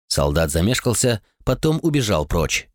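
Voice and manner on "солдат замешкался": ordinary delivery, nothing marked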